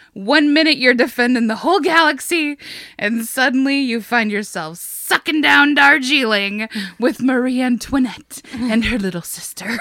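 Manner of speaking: lightly imitated cartoon hero losing his mind; Buzz Lightyear unraveling. Podcaster quoting a toy spaceman at a tea party, mildly unhinged. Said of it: "He's losing his mind a little bit".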